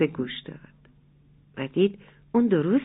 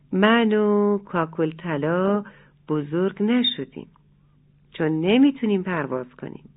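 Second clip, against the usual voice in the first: sulky. Acted. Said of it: "با دلخوری".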